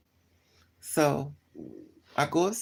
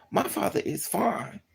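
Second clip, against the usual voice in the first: normal talking voice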